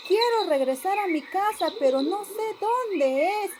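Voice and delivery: a lost rabbit asking for help; lost little rabbit. Acted. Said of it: "el conejito le dijo". (conejito perdido, voz aguda)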